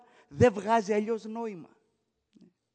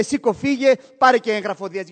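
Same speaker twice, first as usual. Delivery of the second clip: loud, harsh command to get out; husband shouting his wife out the door; angry dismissal; 9 dB louder, faster than usual. Retold or imitated. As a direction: throw her out of the house, shouting.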